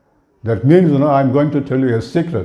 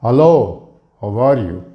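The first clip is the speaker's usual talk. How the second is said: flat Indian English greeting; Indianized way; 2 semitones lower than usual. Shown as a demonstration. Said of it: "in an Indianized way".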